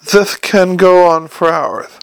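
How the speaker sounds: slow lisp, "This" and "hours" with th for s; lisping servant's slow explanation; Igor's lisp. Acted. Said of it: "your lisp just departed".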